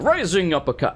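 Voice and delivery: lightly imitated move call, hint of an African accent; a mild mock battle callout; Doomfist impression. Quoting the funny hero's move, lightly imitated callout. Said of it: "where he's like".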